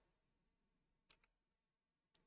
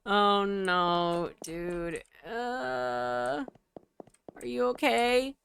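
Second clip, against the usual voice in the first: alarmed high voice; 7 semitones higher, 3 dB louder, much slower than usual. Acted. Finding Hector hurt.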